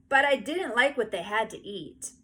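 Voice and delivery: put-on little boy complaining. A narrator's reading. Howie complaining.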